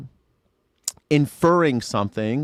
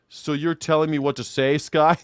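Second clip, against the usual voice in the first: a touch higher, smug retort; mock gotcha comeback; 3 semitones higher than usual. Imagined caller mocking the host, smug. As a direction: turn the gotcha back on him. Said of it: "I thought this guy was gonna say".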